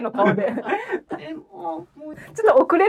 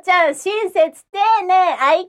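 Fuwa-chan; 3 semitones higher, slower than usual. Pretend. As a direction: put on a cute, piercing squeaky call. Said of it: "ちょっと甲高い声で、".

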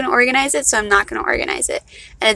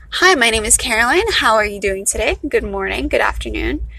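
polite formal introduction with lilting phrases; professional greeting. Acted. Speaker greeting people in a professional setting, formal. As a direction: put on a measured workplace hello. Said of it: "like, a professional setting".

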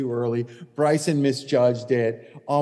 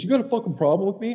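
higher, fast aggressive challenge; confrontational challenge; 7 semitones higher, faster than usual. Retold or imitated. Golfer storming up to the caddy, challenging. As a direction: get in his face, quick and high. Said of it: "He goes".

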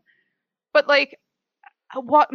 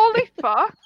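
exasperated; 10 semitones higher than usual. Real, not acted. Reacting to the host's blunder, high exasperated. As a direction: throw up your hands at the mistake. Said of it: "Oh right".

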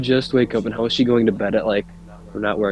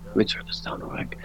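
whispering; 11 dB quieter than usual. Real, not acted. Turning music down mid-recording.

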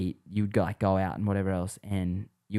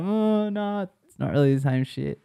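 high, put-on American swearing; high, awkward take on an American swearing; mocking Americans; 10 semitones higher than usual. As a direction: imitate a Yank saying it wrong. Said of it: "the wrong tone".

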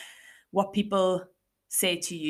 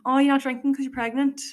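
imitating a nosy asker, higher and louder; pitched-up, louder imitation of a prying question; mock nosy question; 7 semitones higher, 5 dB louder than usual. Asking a non-drinker if they're pregnant, mock nosy.

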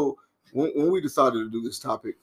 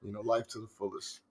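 meek and mild; 3 semitones lower, 12 dB quieter than usual. Real, not acted. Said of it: "He's very meek and mild".

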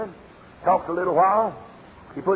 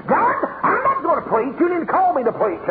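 raised, angry cry at God; drunken hollering; 7 semitones higher than usual. Retold or imitated. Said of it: "cussing and hollering".

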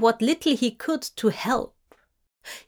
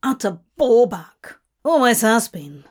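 contemptuous; 5 dB louder than usual. Acted. Crawley insulting Gabriel.

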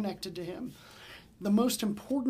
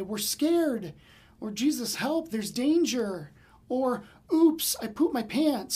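hammed-up scared yelps, louder; mock panicked cries; 3 semitones higher, 6 dB louder, slower than usual. Pastor mocking the disciples' alarm with hammed-up yelps. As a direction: play up a silly panic, louder and higher. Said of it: "more appropriate to say".

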